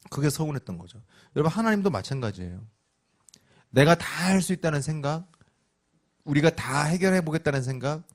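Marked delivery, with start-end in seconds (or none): none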